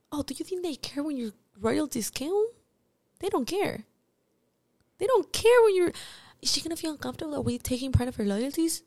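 mocking the label's voice. Artist mimicking her label, mocking and quick. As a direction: sneer at the label the way it treats her.

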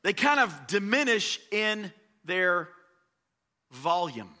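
rising, sung-out preaching over music; preaching build. Acted. Pastor lifting the congregation with sung-out preaching. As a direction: carry the congregation up with the melody.

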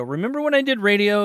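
fast, energetic radio DJ patter. Shown as a demonstration. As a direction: rattle it off like a DJ. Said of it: "I talked like this a lot".

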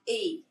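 "E" said for "he", no H; dropped H. Shown as a demonstration. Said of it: "they don't pronounce".

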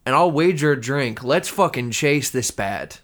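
snorting bull. Acted. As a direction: boom it out like a brawny warrior. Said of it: "That was the best Iron Bull impression I could do".

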